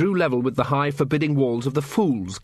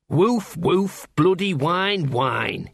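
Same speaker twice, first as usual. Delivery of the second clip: dog's woof; 5 semitones higher, much slower than usual. A narrator's reading. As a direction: bark the words like a scruffy mutt. Narrator voices Gaspode the dog.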